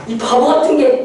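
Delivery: a touch of melodramatic scolding; mock drama anger. Drama lead scolding the injured loved one, mildly mock-angry. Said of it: "화내는 거".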